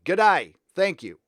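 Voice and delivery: put-on high, loud Kiwi-accented greeting; a light put-on Kiwi accent. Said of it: "That was more Kiwi".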